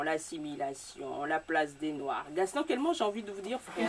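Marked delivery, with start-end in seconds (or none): 2.3-2.9 Kelman ending in a French nasal vowel; higher-pitched Kelman with no sounded final n; prononciation française. Real, not acted. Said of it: "Tu le prononces à la française". (Kelman à la française, finale nasale)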